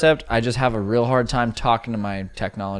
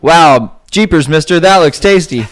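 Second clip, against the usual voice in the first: put-on high, loud jeepers-mister kid; wholesome 1950s kid; 6 semitones higher, 10 dB louder, slower than usual. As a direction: gush like a wide-eyed 1950s kid. Same gee-whiz kid voice.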